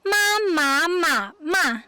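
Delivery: "ma" four times: high level, rising, dipping, falling; sing-song tone drill on "ma", starting high; four Chinese tones. Shown as a demonstration. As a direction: demonstrate each Mandarin tone on "ma". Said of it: "we have four accents".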